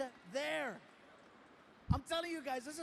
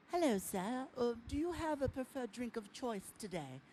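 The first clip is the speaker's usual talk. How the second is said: lightly voiced German flight attendant; a hint of an airline hostess. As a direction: imitate a polite cabin attendant. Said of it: "the flight attendant".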